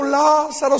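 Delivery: hammed-up repeated cry; mock mourners' wail. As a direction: echo the wail of "Lázaro" again. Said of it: "toda llore y llore".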